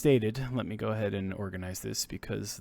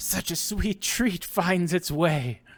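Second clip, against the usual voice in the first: put-on raspy, aged, cackling old voice; 8 semitones higher than usual. The game master voices the vampire ringleader speaking to the players, cackling raspy aged voice. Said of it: "cackles in their rather raspy and aged voice".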